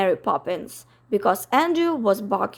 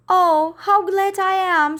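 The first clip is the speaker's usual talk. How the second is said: high, louder gush of relief; relieved Miss Lark; 8 semitones higher, 5 dB louder than usual. Acted. Miss Lark sees her dog, high gushing relief. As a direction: sigh it out, overjoyed.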